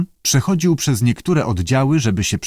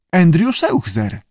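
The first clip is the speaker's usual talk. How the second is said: slow, high creature introduction; lightly voiced talking lizard; salamander voice; 7 semitones higher than usual. A narrator's reading. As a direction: announce the name slowly, pitched up.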